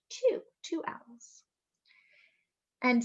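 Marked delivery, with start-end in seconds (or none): 0.1-1.4 whispered count. Acted. Counting owls for children in a whisper. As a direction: whisper so the owls stay put.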